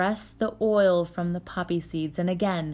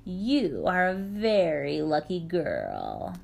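sneering; slower than usual. Acted. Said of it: "Baba Yaga sneered".

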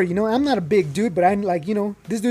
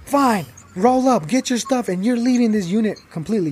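mock furious guard; 4 semitones higher than usual. Imitating the furious guard kicking him off the unit, mildly angry. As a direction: bite out the order like a fed-up guard.

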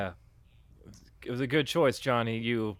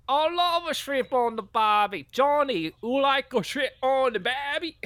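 very high, loud hammy voice; over-the-top high-pitched enthusiasm; gushing role; 12 semitones higher, 4 dB louder than usual. Acted. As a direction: squeal it with mock delight. Acted gushing over shrimp catchphrase.

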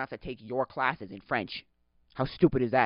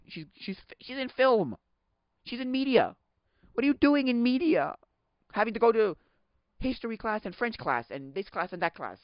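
high, loud exasperated rant, imitating his friend; mock rant; 10 semitones higher, 6 dB louder than usual. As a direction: pitch it up and complain like a fed-up student. Retelling friend's rant about classes.

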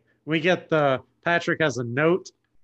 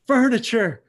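higher, louder dopey starfish voice; Patrick voice; 5 semitones higher, 5 dB louder, slower than usual. Retold or imitated. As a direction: play it big and dim. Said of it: "He says".

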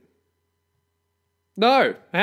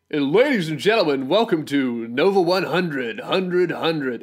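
mock radio host. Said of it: "This is how it would go".

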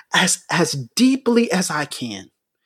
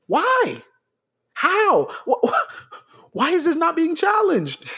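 breaking voice; 10 semitones higher than usual. Real, not acted. Impassioned plea, voice cracking.

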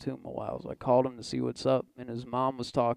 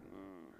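indifferent cat hum; 5 semitones lower, 24 dB quieter than usual. Retold or imitated. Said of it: "Cats are like".

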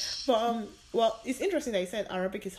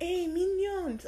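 high, drawn-out mock announcement; eager roommate imitation; 10 semitones higher, much slower than usual. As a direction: imitate a friend slowly announcing a treat. Roommate eagerly proposing film, retold.

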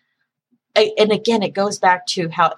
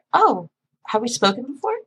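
higher, mock-innocent question; feigned ignorance; 4 semitones higher than usual. Operator pretends not to know regular caller, mock innocent. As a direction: play dumb, pitched up a little. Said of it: "I just pretend like I don't know who he is".

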